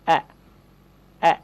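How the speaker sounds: অ্যা said short and weak, barely voiced; weak schwa. Shown as a demonstration. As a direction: tap the অ্যা lightly. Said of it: "দুর্বলভাবে উচ্চারণ করতে হবে". (দুর্বল ছোট অ্যা উচ্চারণ)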